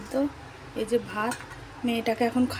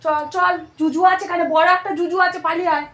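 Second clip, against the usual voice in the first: higher, louder playful scare about the bogeyman; bogeyman warning; 5 semitones higher, 6 dB louder than usual. Real, not acted. Mother coaxing her toddler out of the room, playful scare.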